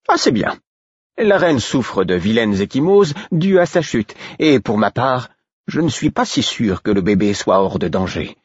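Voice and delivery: lightly voiced servant fretting over the queen; worried maid. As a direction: tell the bad news with concern. Brodette reports on the queen.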